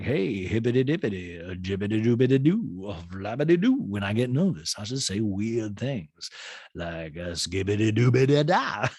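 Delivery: mock nervous nonsense in Sutton's voice; lightly hammed-up impression. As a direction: babble the silly syllables with a lilt. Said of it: "sometimes I'll be like".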